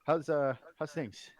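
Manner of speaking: put-on loud, high Swedish-accented greeting; badly attempted Swedish accent. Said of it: "he says".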